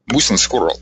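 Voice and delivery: lightly attempted Russian accent, not convincing; an amateur actor trying a Russian mafia accent; bad Russian accent. Actor practising Russian accent for mafia parts, half-hearted. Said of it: "try to get a Russian accent".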